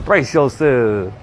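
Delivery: very slow, stretched words; slow and drawn out. Shown as a demonstration. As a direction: draw out every word, slowly. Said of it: "That's what I would do".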